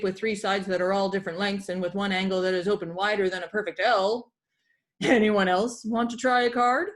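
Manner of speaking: booming classroom pirate, "here be" and "'tis"; a hint of a hearty pirate lecturing; pirate teacher.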